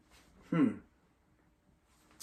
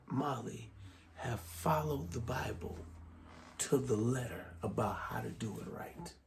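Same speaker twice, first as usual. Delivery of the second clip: Doctor Sclavino voice; 6 dB quieter than usual. Acted. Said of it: "I'm gonna go a little bit deeper as, as him".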